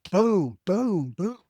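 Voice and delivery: spaced-out verbal booms, each one a hit; imitated booms. Neurologist's bad news landing on him, imitated booms. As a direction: sound out blow after blow.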